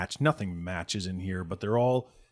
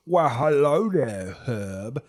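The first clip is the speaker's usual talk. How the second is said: higher, slow, drawn-out greeting; gang boss greeting; 4 semitones higher, 5 dB louder, much slower than usual. Acted. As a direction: greet an old rival slowly and loudly. Game master voices the gang boss.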